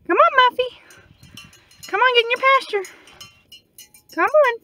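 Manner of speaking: high, loud sing-song call across the field; calling the goat. Real, not acted. Farmer calling her goat in from the pasture, high loud call.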